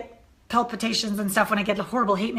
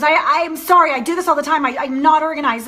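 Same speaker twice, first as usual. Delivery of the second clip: tearful apology; 4 semitones higher, 7 dB louder than usual. Retold or imitated. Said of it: "started to cry".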